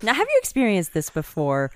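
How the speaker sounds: pitchman asking the viewer; infomercial voice. Acted. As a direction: sell it like a late-night TV ad. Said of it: "You sound like an infomercial right now".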